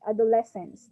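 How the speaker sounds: adolescence said again the right way; correct pronunciation. Shown as a demonstration. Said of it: "That's how you should pronounce it".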